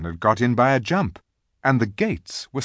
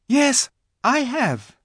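very high, slow, louder reply; eager little girl; 5 dB louder, slower than usual. A narrator's reading. Lucy offers the giant her handkerchief, eager. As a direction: call it up brightly in a child's voice. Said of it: "said Lucy".

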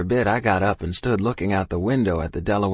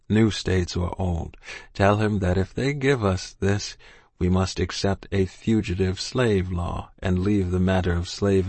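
low and whispery. Acted. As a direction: fade into a whisper. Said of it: "so low and whispery now".

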